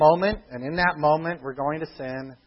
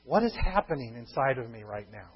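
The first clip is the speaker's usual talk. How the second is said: quiet inward question; 5 semitones lower, 6 dB quieter than usual. Shown as a demonstration. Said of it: "This all can take just a few seconds".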